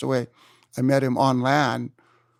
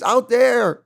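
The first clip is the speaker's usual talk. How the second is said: higher, louder mock urging; imitating Jose Angel; 10 semitones higher, 7 dB louder than usual. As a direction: point him out to sea. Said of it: "He says".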